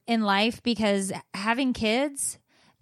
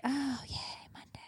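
mock cheer; 4 semitones higher, 13 dB quieter than usual. Mock cheer about Monday.

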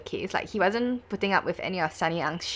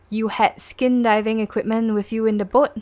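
raised, louder cross-examining voice; questioning prosecutor; 4 semitones higher, 6 dB louder than usual. Acted. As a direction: press the witness like a prosecutor. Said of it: "the prosecution".

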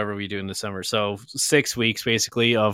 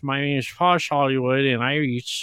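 mock posh British. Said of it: "He's like".

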